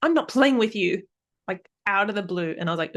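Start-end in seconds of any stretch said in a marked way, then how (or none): 0.0-1.0 put-on very high, louder kid's protest; mock child outburst, high and loud; upset child. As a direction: snap back like an upset kid. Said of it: "I heard one of them say".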